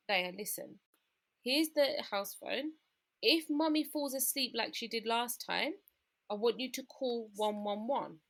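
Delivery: acted careful, lilting instructions; mother instructing child. Unwell mum prepping her child for an emergency, gently instructing. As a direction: talk a small child through it step by step. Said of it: "So I said to Daya".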